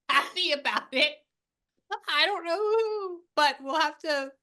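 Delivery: high, loud, laughing through the words; helpless amusement, pitched high. Real, not acted. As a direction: let real laughter push the voice up. Medium laughing at spirit's joke.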